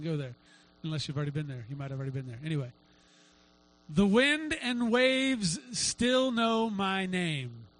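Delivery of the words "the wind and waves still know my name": slow, stretched-out solemn line, not whispered; God's voice, retold. God answering a stressed woman's prayer, slowly solemn. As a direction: draw out each phrase as a divine reassurance. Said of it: "God whispered to her".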